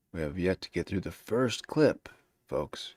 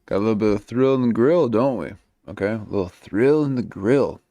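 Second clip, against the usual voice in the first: excited; 3 semitones higher, 8 dB louder than usual. Real, not acted. Host reacts excitedly to clip.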